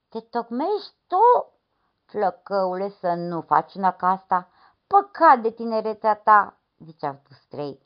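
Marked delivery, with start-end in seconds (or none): 0.1-6.6 alarmed warning. Acted. The men warn the lad.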